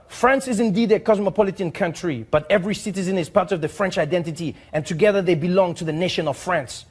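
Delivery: put-on lightly French-accented formal letter read; a hint of a French diplomat reading aloud; mild French accent, earnest and formal. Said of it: "he says".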